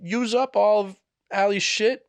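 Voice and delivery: sing-song accusing question; high, slow mock innocent question. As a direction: ask it sweetly, with a hint of accusation. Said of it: "I was like".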